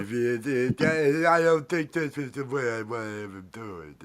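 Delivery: put-on puppet voice; pumpkin character voice. Host trying out a voice for pumpkin puppet, playful character voice. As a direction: talk in the pumpkin's voice.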